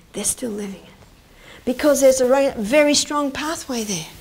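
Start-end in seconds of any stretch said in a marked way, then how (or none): 0.1-1.6 hushed, slow whisper; a slow secret whisper. Acted. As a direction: lean in and whisper it. Stressing lingering trauma.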